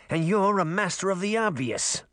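dryly sarcastic as a talking fish; lightly voiced sarcastic fish. Fish character speaks.

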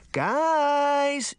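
high, drawn-out shout; insistent shout. A narrator's reading. Daphne interrupting the quarrel, shouting urgently. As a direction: shout to cut through the argument. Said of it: "Daphne shouted".

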